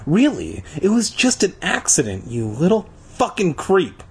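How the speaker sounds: a read-aloud shriek, pitch up but not volume; lightly voiced angry girl shrieking. A narrator's reading. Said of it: "Tasha shrieked".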